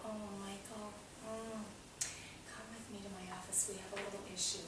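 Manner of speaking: put-on soft and kind, coaxing the child; gentle counselor. Counselor quietly calls boy over.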